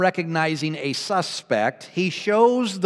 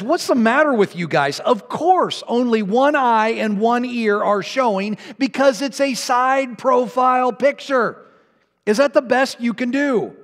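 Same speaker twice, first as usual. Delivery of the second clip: higher, exasperated scolding of the trainees; frustrated policeman; 5 semitones higher than usual. Acted. Policeman scolding his trainees, exasperated and higher. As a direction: let the policeman's patience snap, voice pitched up. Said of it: "The policeman now is getting frustrated".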